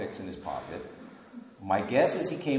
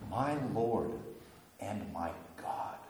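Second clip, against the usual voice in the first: reverent confession; 3 semitones lower, 7 dB quieter, slower than usual. Shown as a demonstration. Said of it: "It's not just "my Lord".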